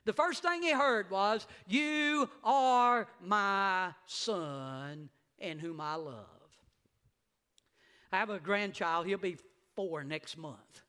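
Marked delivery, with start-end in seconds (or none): 1.7-6.2 slow, solemn heavenly voice; stretched, reverent divine voice; voice of God. Acted. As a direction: speak it slowly like God from heaven. Voice from heaven quoted again.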